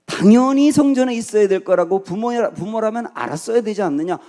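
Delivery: loud, high, insistent incredulity; acted surprise. Young Jesus reproaching parents who should know, acted incredulous. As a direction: press the obvious point home emphatically. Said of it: "놀랐다는 거죠".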